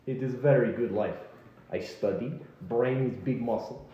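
put-on lightly Russian-accented muscle man; a touch of a Russian strongman telling his story. Bodybuilder guard to the naked party, in a light Russian accent. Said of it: "Why does he have a Russian accent?".

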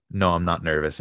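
light imitation of a Russian accent; quoting in a Russian accent; thick Russian accent. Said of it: "in a very thick Russian accent".

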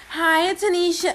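customer service voice. Shown as a demonstration. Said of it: "Let me do my real voice".

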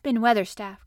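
loud call up to someone. A narrator's reading. Mary below the wall hailing the gardener, calling out. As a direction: call out, finding your breath. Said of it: "called out Mary, finding her breath".

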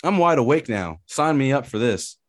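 high, excited mock thrill; hyped up. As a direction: sell it like a hyped fan. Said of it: "I was like".

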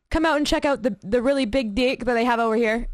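light mock Australian accent, "deck" as "dick"; imitated Australian accent. Viewer imitating an Australian renovation show, mock Australian accent. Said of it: "like, an Australian-based one".

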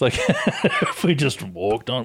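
sneaky inner thought. Retold or imitated. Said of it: "I thought to myself".

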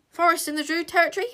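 fast, high, breathless; out of breath; panting. A narrator's reading. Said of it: "panted the little princess".

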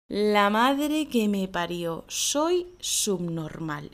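slow, resigned grumble at your own silliness; self-annoyed tone. Shown as a demonstration. After wasting hours on a silly problem, slow self-mocking grumble. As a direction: drag out soy subnormal in disgust at yourself. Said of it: "Y además con este tono".

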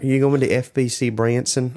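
imitating a friend's Tennessee speech; light Southern accent, retold; a touch of Tennessee twang. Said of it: "I assume that's how she's speaking".

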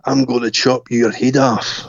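slow, put-on tough-boy voice; threatening older boy. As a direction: imitate an older boy's menacing threat, slowly. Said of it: "when an older boy came along".

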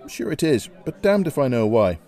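cheerful reply. Acted.

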